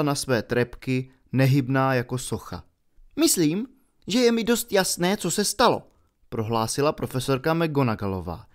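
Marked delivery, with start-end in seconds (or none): 3.2-5.8 higher stern teacher voice; cold, knowing reproach; stern professor. Acted. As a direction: McGonagall coldly telling the pupils she knows what happened. McGonagall speaking.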